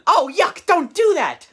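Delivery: disgusted ghost. Retold or imitated. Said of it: "the other ghost says".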